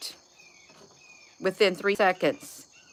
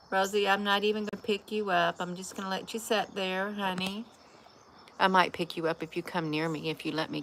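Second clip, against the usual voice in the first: soft talk to the cat; 6 dB quieter than usual. Real, not acted. Soothing the cat softly.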